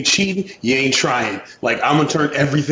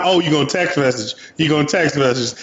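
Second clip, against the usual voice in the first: mocking smack talk. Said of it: "talking smack".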